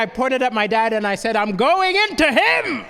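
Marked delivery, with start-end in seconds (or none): 1.4-2.8 lightly voiced devil, slow climbing threat; slow, hammed-up demon declaration. Boy pointing at his dad, lightly playing a slow devil. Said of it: "I put on my best devil voice".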